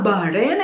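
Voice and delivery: Bahrain with a weak, swallowed h; wrong Bahrain. Shown as a demonstration. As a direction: gloss over the h in Bahrain. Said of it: "it's not Bahrain".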